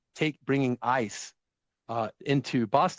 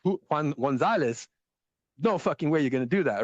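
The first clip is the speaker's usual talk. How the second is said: Boston tough guy. Retold or imitated. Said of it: "he goes".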